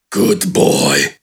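very low, smug growl; smirking giant. A narrator's reading. Giant praising the broken bandit, low smug growl. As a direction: smirk it out, deep and satisfied. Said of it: "Gafgarn smirked".

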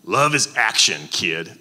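put-on the old Appalachian coach drives it home; Appalachian drawl. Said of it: "and I'll do the accent".

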